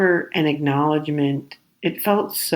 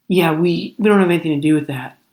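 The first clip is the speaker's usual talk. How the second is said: dismissive attitude; 3 semitones higher, 4 dB louder, faster than usual. Retold or imitated. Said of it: "that was their attitude to me".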